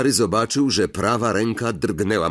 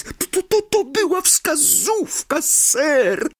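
very high squeaky elf stuttering eagerly; stammering elf; slower than usual. Acted. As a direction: tumble over the words.

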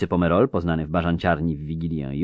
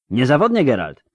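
higher, louder opening, then settling; excited cry; 6 semitones higher, 4 dB louder than usual. A narrator's reading. Angoulême agreeing to meet Geralt, excited cry. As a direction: call out a keen assent. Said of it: "krzyknęła Angujem".

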